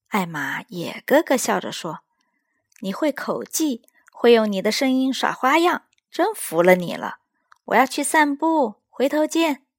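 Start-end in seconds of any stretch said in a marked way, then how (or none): 2.8-9.7 higher, lively elephant voice; cheerful Elmer, amused and easygoing; bright storybook elephant, waving goodbye; friendly elephant Elmer. Acted. Elmer speaks to cousin Wilbur.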